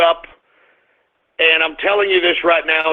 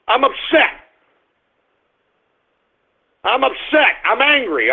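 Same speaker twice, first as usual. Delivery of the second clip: upset; 5 semitones higher than usual. Real, not acted.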